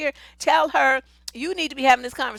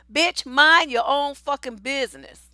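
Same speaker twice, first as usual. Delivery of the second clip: scolding message; 4 dB louder than usual. Pretend. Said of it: "you can quote me".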